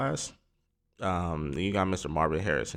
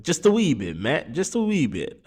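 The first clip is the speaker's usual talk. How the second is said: jokey put-on Scottish accent, pitched much higher and louder; mock Scottish accent; 9 semitones higher, 5 dB louder than usual. Joking to viewers about his mock draft in a mock Scottish accent. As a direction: ham up a Scottish lilt on wee bit. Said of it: "that's my accent, you know".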